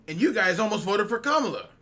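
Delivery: mock-indignant loud retelling; loud outraged quote. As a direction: quote the comment loudly. Retelling an outraging online comment.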